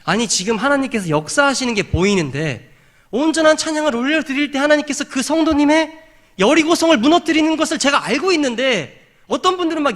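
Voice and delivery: high, insistent outpouring; impassioned preaching. Real, not acted. Preacher exasperated that people miss God's work, impassioned preaching.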